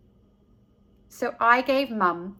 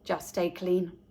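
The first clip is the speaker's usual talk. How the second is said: gentle dad; 7 semitones lower, 7 dB quieter than usual. A narrator's reading. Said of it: "He smiled and answered".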